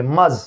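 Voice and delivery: मज spoken alone as one joined syllable; first syllable isolated. Shown as a demonstration. Teacher isolating the opening syllable, clipped. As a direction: clip off मज by itself. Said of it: "यहाँ पे भी दो को पढ़ा जाता है".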